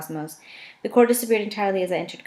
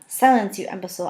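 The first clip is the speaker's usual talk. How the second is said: sharp command. Acted. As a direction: cut him off with contempt. Aiden snaps at Azan.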